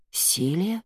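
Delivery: startled rising question; gasping surprise. A narrator's reading. Henry recognizes his old friend grown old, astonished. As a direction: gasp out the name in disbelief. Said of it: "ахнул Генри".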